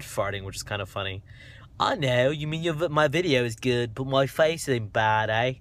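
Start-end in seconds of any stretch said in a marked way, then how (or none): 1.8-5.5 rough attempt at Australian; hammed-up, wandering Aussie accent; dodgy Australian accent. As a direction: try a bad Australian accent. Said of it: "I might be doing an Australian accent".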